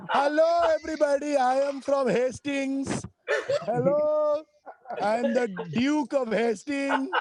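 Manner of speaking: high-pitched parody of a bad British accent; mock British accent.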